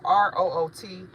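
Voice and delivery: letters spelled one by one, slowly; slow careful spelling. Shown as a demonstration. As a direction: dictate each letter clearly. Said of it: "spelling Instagram name".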